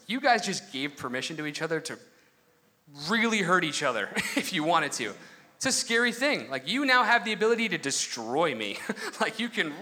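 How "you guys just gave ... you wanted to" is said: laughing through the words. Retold or imitated. To the newlyweds at the wedding, laughing. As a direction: chuckle as you say it to the couple. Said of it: "and I was like".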